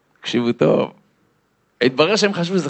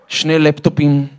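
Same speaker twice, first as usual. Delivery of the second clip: ordinary delivery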